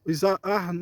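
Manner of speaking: measured reading aloud of a Bible passage; projected scripture reading voice. Acted. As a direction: read the verse out to a congregation.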